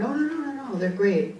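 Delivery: high-pitched mock protest, settling down; hasty reassurance. Homeowners declining to have their ghosts removed, hastily protesting. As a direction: imitate someone quickly waving off an offer.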